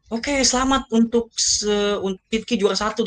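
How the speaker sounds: slow, bored, half-hearted congratulations; flat unenthusiastic. Shown as a demonstration. Speaker demos how not to congratulate a winner, bored. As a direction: drag it out with no joy. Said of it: "jangan kayak".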